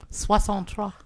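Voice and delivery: clearly repeated French number. Pretend. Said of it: "You keep your dirty mouth to yourself".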